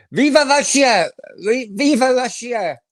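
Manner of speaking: high, loud chant of Viva Russia; mock rally cheer. Streamer cheering a chat comment, loud mock chant. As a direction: cheer it like a fan on the terraces.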